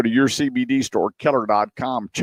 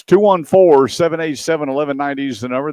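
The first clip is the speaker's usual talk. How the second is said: announcer call-out; 6 semitones higher, 4 dB louder, faster than usual. Real, not acted.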